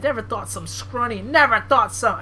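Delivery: badly faked Southern wrestler; attempted Southern accent. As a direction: try a Southern accent and fumble it. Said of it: "I can't do southern accents".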